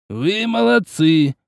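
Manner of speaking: slow, dry, measured praise; a hint of a stern teacher; dry stern sensei.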